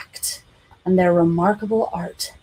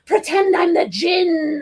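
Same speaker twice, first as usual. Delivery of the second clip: put-on high slow wailing child; 9 semitones higher, slower than usual. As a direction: wail it high like a kid. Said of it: "said Tonto in a high wail".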